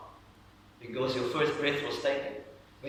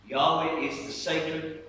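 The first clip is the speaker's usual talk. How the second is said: slow, solemn; slower than usual. Real, not acted. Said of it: "solemn slow teaching".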